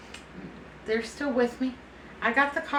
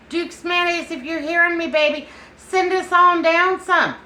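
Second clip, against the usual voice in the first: calling out higher and louder to a faraway brand; excited call out; 7 semitones higher, 6 dB louder than usual. Real, not acted. Vlogger calls out to Duke's for more mayonnaise, excited and loud. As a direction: holler up to them, begging playfully.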